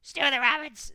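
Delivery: very high, loud squeal of dismay; shocked creature squeal. A narrator's reading. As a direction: squeal in horror. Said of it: "squealed Gollum in dismay".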